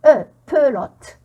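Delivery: pelote slow, first E as "eu"; E pronounced eu. Shown as a demonstration. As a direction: sound out "eu", then a loud slow pelote. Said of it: "mais on le prononce". (pelote, le e prononcé « eu », lentement)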